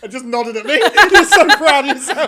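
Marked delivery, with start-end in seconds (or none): 0.7-2.3 much higher and louder, bursting with laughter; laughing tease. Real, not acted. Teasing a co-host over his joke, laughing loudly. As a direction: tease him while cracking up.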